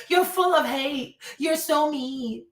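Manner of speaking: drawn-out, mock-hurt complaint; mocking whine. Speaker mimics critic accusing them of hate, mock whine.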